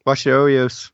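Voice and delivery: a hammed-up Baltimore "hon" accent, lightly done. The speaker teasing his co-host about Maryland talk, in a mock Baltimore accent. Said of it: "You do that a little better than I do".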